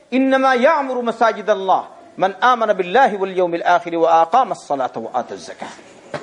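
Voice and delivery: lightly chanted verse from the Quran; Quran recitation. Acted. Preacher quotes the verse to his listeners, in a gently chanted tone.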